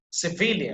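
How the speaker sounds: "civilian" with VI emphasized; stress on VI. Shown as a demonstration. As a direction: lean on the "vi" of "civilian". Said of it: "that will be emphasized".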